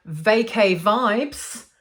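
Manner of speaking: drawn-out, slow Australian accent. Real, not acted. Vlogger naming a perfume she bought, in a slow Australian accent. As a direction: slip briefly into an Australian accent. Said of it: "said that in an Australian accent".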